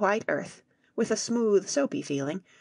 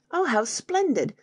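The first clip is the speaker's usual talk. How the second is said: excited; 6 semitones higher than usual. Acted. Fritz delighted by crystal cave.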